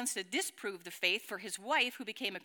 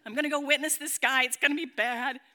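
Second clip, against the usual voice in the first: grudging, hurried grumble; pouting; 4 dB louder than usual. Acted. Reluctant convert agreeing to go witness, pouting. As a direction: agree under protest, with a pout. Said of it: "So with much pouting".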